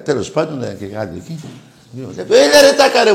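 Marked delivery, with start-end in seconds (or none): 2.1-3.1 laughing greeting. Retold or imitated. Famous singer greets him warmly.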